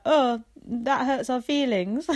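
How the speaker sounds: jokey imitation of wounded pride; mock hurt. Imitating a pop duo's hurt reply, then laughs.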